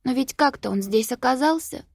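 crying. A narrator's reading. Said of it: "плакала Софи".

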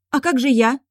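high-pitched, squeaky worried cry; squeaky exclamation. A narrator's reading. Girl scared of losing the men and getting lost, squeaky. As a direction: pipe up high, afraid of being left behind. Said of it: "воскликнула с неприятной долей писка в каждом слове".

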